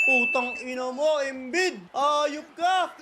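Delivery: exasperated outburst at a rival player; real angry cursing. Real, not acted. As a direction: curse him out in frustration. Cursing Embiid after his shot. (inis na pagmumura)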